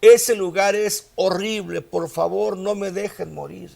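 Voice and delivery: preacher acting out a dying man begging; retold screams. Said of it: "Y este hombre gritaba".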